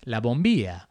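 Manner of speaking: Argentine pronunciation of "bombilla"; Argentine accent. Real, not acted. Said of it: "go into the Argentine accent".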